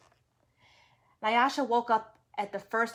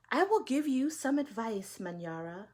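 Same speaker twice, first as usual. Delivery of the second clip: lightly voiced old woman. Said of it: "You like that voice, the old woman voice?".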